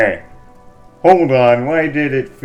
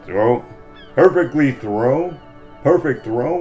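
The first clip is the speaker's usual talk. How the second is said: rising, louder disbelieving questions; can't believe what he heard; incredulous; 4 semitones higher, 3 dB louder than usual. Real, not acted.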